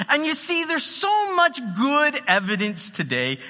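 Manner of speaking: lightly imitated British accent; British pundit making his case, lightly put on; a touch of British authority; Richard Dawkins. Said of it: "he says it with a British accent".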